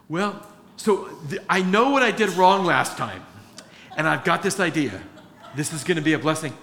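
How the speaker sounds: sheepish laughing self-quote; laughing at himself. Retold or imitated. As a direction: laugh through your own bad plan. Self-quote, stubborn plan, laughing.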